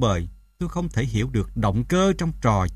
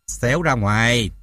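understated angry hiss; hissed through teeth; 2 semitones lower than usual. A narrator's reading. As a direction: order out through clenched teeth. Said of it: "Bà rít qua kẽ răng". (rít qua kẽ răng)

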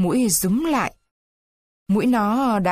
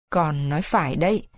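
put-on old man's voice; 5 semitones lower than usual. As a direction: agree gently like an old father. Old Carlo agreeing.

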